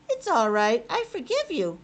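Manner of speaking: put-on a boy forgiving gently; boy character voice. Albert forgives his family.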